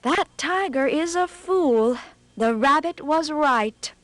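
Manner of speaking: fox's inner thoughts. Acted. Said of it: "the fox thought to himself".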